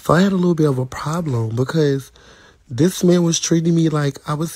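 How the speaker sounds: a light touch of sassy attitude on the retelling; little cunty voice. Shown as a demonstration. To her stream viewers, restarting the story with mild sass. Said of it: "let me get my little cunty voice on".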